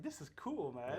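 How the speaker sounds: reenacted delight at an unexpected perk; impressed. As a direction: relive being impressed, pitch up, volume easy. Acted delight at the trailer.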